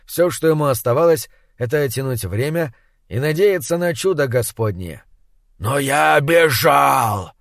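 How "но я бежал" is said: медленный, громкий безумный крик; внезапно заори. A narrator's reading. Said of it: "внезапно заорал хозяин таверны". (внезапный крик)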